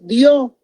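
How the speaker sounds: "dio" drawn out, the beat landing on the O; stress on the O. Shown as a demonstration. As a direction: put the vocal punch on the O of "dio". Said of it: "el golpe de voz en la O".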